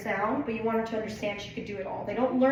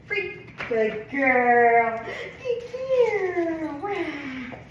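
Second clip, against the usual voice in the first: happy release; 5 semitones higher, 5 dB louder, much slower than usual. Real, not acted. Releasing and praising dog.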